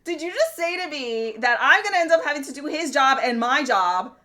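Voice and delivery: mock furious reply to the district manager; laughing outrage. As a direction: fire back at the manager, half laughing. Retold angry reply, laughing.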